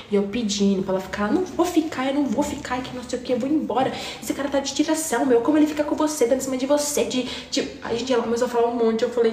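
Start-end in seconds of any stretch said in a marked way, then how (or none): 1.3-7.7 mock angry rant. Girl refusing to stay, ranting.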